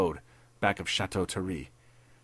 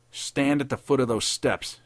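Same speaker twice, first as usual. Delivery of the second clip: higher, louder, urgent command; tense order; 5 semitones higher, 4 dB louder than usual. A narrator's reading. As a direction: give a tightly controlled order. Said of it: "he ordered tensely".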